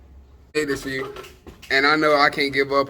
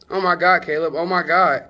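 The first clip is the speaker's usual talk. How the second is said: excited exclaim; 6 semitones higher, 5 dB louder than usual. Real, not acted. Reacting to nacho love speech.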